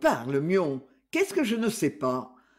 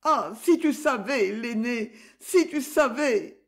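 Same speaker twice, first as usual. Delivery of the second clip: tearful plea; 5 semitones higher than usual. Acted. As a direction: plead through tears, rising into a wail. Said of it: "à travers ses larmes".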